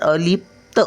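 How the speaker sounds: अलिप्त with a brief p, then full त; light p, full t. Shown as a demonstration. Teacher explaining half letters, अलिप्त split before a full त. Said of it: "त्याचा थोडासा उच्चार करायचा".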